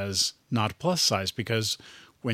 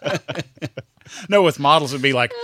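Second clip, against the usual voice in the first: ordinary delivery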